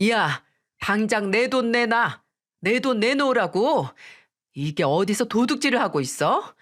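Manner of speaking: mother-in-law yelling for her money; voiced mother-in-law scolding while pulling hair; angry demand.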